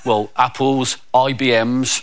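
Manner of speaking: lightly voiced lad, low and halting; sheepish schoolboy. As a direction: own up with mild reluctance. Child reluctantly confesses to teacher.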